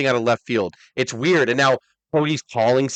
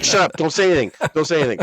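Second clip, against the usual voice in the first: imitating The Rock; 4 semitones higher, faster than usual. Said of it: "he's like".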